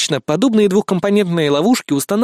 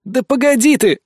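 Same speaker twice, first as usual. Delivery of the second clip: exasperated call; 7 semitones higher than usual. A narrator's reading. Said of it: "выдохнул я".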